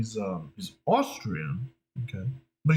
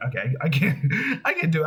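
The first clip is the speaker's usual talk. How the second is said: ordinary delivery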